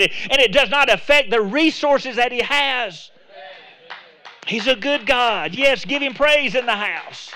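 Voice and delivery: preaching at full force. Acted. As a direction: build the congregation up, ringing and emphatic. Closing exhortation at full force.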